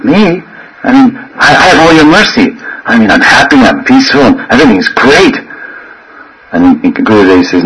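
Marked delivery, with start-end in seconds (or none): 0.0-5.4 higher-pitched, mock-innocent protest; taken-aback disciple. Disciple blamed by guru, acted surprise. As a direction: jump in startled, then insist all is well. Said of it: "You're what's wrong".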